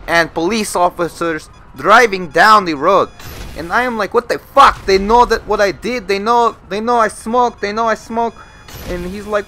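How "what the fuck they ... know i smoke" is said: loud, raised paranoid outburst; retold freak-out, high and insistent; paranoid panic. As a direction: act out being sure you are caught. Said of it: "I was just very paranoid".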